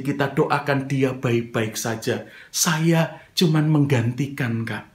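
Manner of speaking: calm, courteous reply, no outburst; imitating a composed, well-mannered explanation; friendly and polite. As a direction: answer an accusation gently and respectfully. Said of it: "dengan intonasi yang bukan meledak-ledak".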